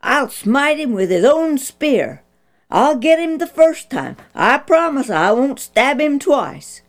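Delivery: put-on a young soldier who can hardly contain himself; quivering excitement. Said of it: "Abishai fairly quivered in excitement".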